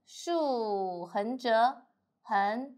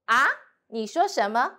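puzzled ask-back; doubtful question; 2 semitones higher, 5 dB louder than usual. Shown as a demonstration. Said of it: "a little bit doubt".

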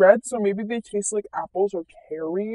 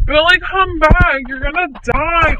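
loud high warning call; 5 semitones higher, 6 dB louder than usual. Acted. Mom calls Billy back from the street, loud warning. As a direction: shout a warning after the kid.

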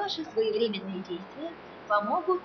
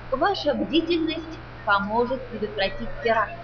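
airport announcement; 4 dB louder than usual. Acted. Security PA announcement.

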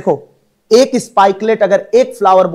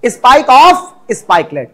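slow dictation; much slower than usual. Shown as a demonstration. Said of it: "क्या होगा?".

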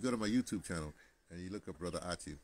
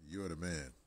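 Denzel; slower than usual. Retold or imitated. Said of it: "in my best Denzel, uh, voice".

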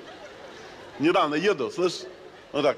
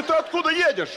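much higher, laughing question; high excited question; 11 semitones higher than usual. Acted. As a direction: ask it shrill with a laugh. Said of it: "Я говорю".

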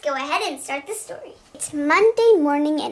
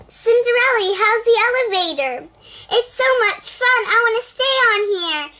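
higher, louder happy chatter; high excited voice; 5 semitones higher, 4 dB louder than usual. Acted. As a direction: chatter with delight. Characters chatting at elevator.

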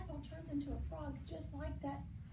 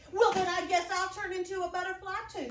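pollywog voice; 5 semitones higher, 9 dB louder than usual. Acted. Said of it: "the pollywog said".

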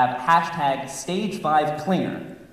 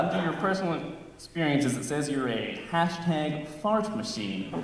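interviewer reading; 7 dB quieter than usual. Acted. Interviewer reads résumé aloud.

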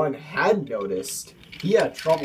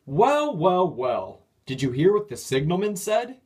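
high, louder mocking well well well; gloating; 5 semitones higher, 3 dB louder than usual. A narrator's reading. Engine gloats over the stuck diesel, high and mocking. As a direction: relish the other's trouble.

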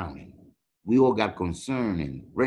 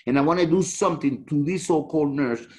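angry; 3 semitones higher, 4 dB louder than usual. Real, not acted. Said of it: "So now I'm angry".

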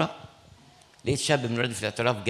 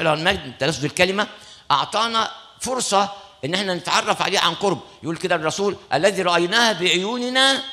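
preaching; 3 semitones higher than usual. Acted. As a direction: proclaim it to the congregation. Preaching the gospel message. (وعظ بحماس)

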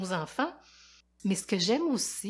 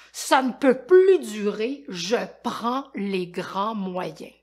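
angry; 7 dB louder, slower than usual. Acted. Voisin fâché décide d'agir.

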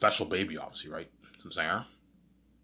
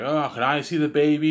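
higher, louder eager request; excited kid; 8 semitones higher, 7 dB louder than usual. Acted. Kid asks parents to see the baby, excited. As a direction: lightly imitate an excited child.

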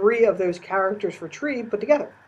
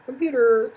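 "computer" pitched high and louder; "computer" in a raised demonstration tone; high tone demo; 7 semitones higher, 5 dB louder than usual. Shown as a demonstration. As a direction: lift the whole word "computer" well above normal speech. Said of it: "four or five different tones".

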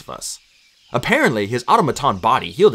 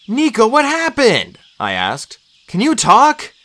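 high, anxious questioning; raised, worried voice; urgent worry; 11 semitones higher, 4 dB louder, slower than usual. A narrator's reading. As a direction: press an injured friend for answers. Urgent questions to injured friend.

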